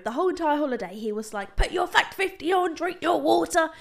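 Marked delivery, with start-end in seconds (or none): 1.5-3.7 a hint of a nagging dad, higher; lightly mock a fussing father; dad mode. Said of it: "he was literally in dad mode".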